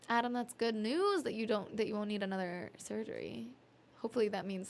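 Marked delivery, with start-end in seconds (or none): 0.1-0.3 surprised gasp. Real, not acted. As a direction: catch your breath at the news. Gasps on seeing the message.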